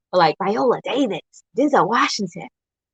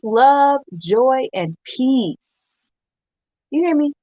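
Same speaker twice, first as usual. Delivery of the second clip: passionate; 4 semitones higher, much slower than usual. Acted. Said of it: "I was a little passionate there".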